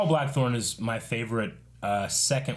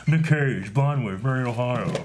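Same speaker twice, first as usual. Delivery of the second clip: Nick Cage impression attempt; 4 dB louder than usual. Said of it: "Is that it? I think I got it".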